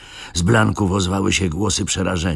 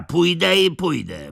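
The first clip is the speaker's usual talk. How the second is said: high, breathless mimic of her stubbornness; panting complaint; 12 semitones higher than usual. A narrator's reading. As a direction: huff out her stubborn words. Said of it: "mówił przerywanym głosem, sapiąc".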